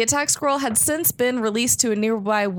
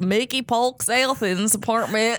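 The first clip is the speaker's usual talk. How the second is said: put-on Alabama accent; slower than usual. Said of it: "say his name in an Alabama accent?".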